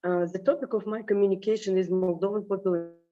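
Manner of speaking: hoarse, strained speaking voice; grating voice. Real, not acted. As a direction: push through a worn-out grating voice. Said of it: "sorry for my terrible voice".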